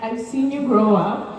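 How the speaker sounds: ordinary delivery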